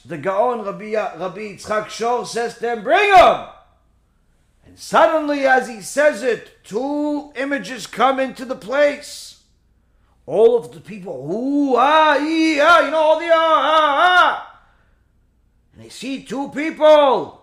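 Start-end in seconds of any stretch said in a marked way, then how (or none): 2.8-3.5 bold command. Retold or imitated. Rabbi challenges him to bring them. 11.3-14.1 crowd gasps. Retold or imitated.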